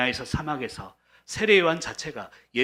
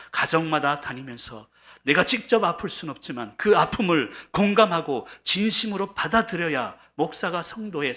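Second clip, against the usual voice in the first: raised, insistent pulpit voice; impassioned preaching; 5 semitones higher, 4 dB louder than usual. Real, not acted. Pastor explaining why he visits homes, impassioned preaching. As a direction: press the point home to the congregation.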